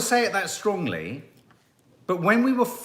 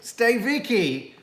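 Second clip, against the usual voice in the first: bossy calling out, louder; mock commands; 4 semitones higher, 4 dB louder, much slower than usual. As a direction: order someone about, half-mock. Acting out the director's orders.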